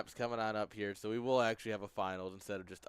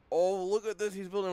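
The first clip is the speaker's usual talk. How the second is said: imitating Lethal; 9 semitones higher, 4 dB louder than usual. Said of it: "Lethal would be like".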